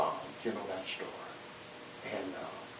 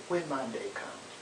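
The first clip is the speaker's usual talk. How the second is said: slow, weighted "When"; stress on WHEN; 5 dB quieter than usual. Shown as a demonstration. Preacher repeating Martin's own wording, slow stress on "When". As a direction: draw the phrase out, leaning on "When". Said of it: "he said, "When my day comes".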